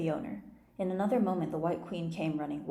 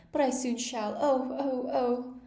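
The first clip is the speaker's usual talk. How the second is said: louder, higher shrieks; screaming; 6 semitones higher, 5 dB louder, slower than usual. A narrator's reading. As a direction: wail in mock pain. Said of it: "the Queen began screaming".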